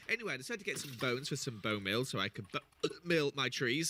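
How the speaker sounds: talking through hiccups; a hiccup breaks the words. Real, not acted. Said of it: "There's the hiccup".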